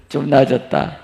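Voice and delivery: ordinary talk, nothing marked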